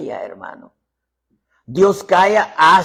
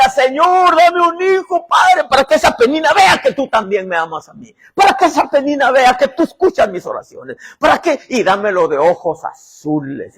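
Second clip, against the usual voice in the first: tearful pleading prayer; 9 semitones higher, 7 dB louder than usual. Acted. Ana weeping prayer for a son.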